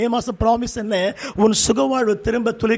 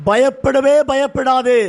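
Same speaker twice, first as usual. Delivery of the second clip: slow emphatic assurance; 3 semitones higher, much slower than usual. Acted. Pastor assures cheated believers, dragging out every syllable slowly. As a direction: lean on every syllable, very slowly, to drive it home.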